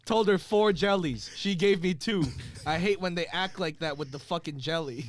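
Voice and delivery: bad acting, deadpan monotone. Shown as a demonstration. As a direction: read it in a bored monotone. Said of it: "I'm gonna say it in a monotone voice".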